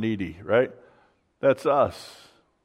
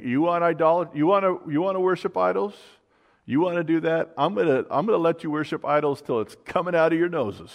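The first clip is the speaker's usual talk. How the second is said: higher, insistent mock exasperation; pitched-up indignant ultimatum, retold; exasperated challenge; 6 semitones higher, 3 dB louder than usual. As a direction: voice God fed up, throwing their wish back. Acting God fed up with Israel.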